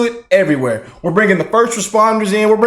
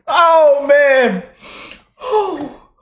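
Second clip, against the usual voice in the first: ordinary delivery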